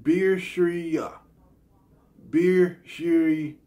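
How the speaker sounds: "Beer Shreer" said carefully, each syllable held apart; careful pronunciation. Shown as a demonstration. Vlogger practicing a game title for viewers, careful pronunciation. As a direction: deliberately sound out "Beer Shreer". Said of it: "let me try to get it right".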